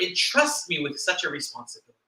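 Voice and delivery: "entrust" punched on the second syllable, then running on quickly; stress on entrust. Shown as a demonstration. Minister underlining the responsibility given, stressing "entrust". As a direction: hit "entrust" hard, let the rest fall away. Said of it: "emphasize this word".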